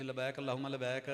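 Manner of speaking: old woman's Punjabi-accented recitation, lightly imitated; Punjabi-accented talbiya. Old woman on the flight starts talbiya, light Punjabi accent. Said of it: "Punjabi लब लहजा जैसे सीखी थी".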